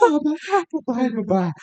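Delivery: very high, breathy, overreacting voice. Describing a movie character to the other host, imitating breathy, overreactive Mrs. Peacock. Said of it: "this very breathy, overreactive".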